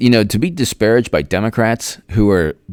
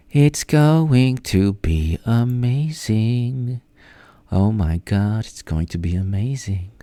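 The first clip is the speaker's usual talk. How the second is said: mock awe; 5 dB quieter, slower than usual. Promises an exciting election night.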